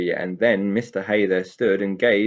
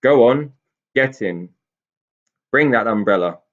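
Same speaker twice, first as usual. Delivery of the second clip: furious roar; 3 semitones higher, 8 dB louder than usual. A narrator's reading. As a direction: bellow at the little thieves. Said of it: "roared Mister Hay there".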